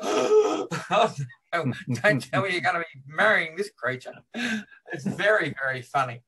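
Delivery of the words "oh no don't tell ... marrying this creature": lightly voiced scandalised bridesmaid; horrified bridesmaid. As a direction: recoil in prim horror, fast.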